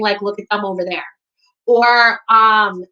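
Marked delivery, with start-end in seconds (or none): 0.2-1.1 "them" said like "dumb", with a hard d. Shown as a demonstration. Showing how she grew up talking, "them" pronounced like "dumb". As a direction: turn the th of "them" into a d. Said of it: "I always grew up saying".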